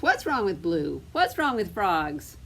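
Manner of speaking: loud, indignant mouse in a storybook; mock-cross complaint; mildly angry. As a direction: protest crossly, lightly acted. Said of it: "getting angry with each other".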